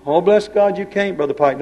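high mocking "bless God" from a naysayer; mocking doubter. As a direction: mimic the doubters who scoff at the preacher. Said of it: "don't tell me that".

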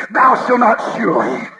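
tempting inner voice. Acted. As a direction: sell the sin with easy excuses. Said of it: "something begins to say".

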